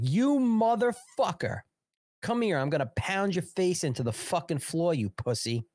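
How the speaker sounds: hammed-up threat, yelled at the top; imagining cursing out McCarthy in a pretend rage; pretend furious yell. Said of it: "I'd be like".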